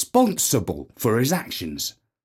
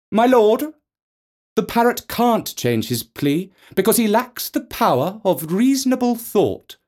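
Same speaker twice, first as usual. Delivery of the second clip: higher, raised lawyer's plea; lawyer speaking over uproar; 6 semitones higher than usual. Acted. Defence lawyer addressing the judge over uproar, raised voice. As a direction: project over a noisy courtroom. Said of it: "spoke over the uproar".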